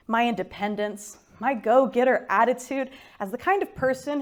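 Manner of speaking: measured recital in short phrases; poetry reading. Acted. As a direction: read verse deliberately, pausing between lines. Reads her poem.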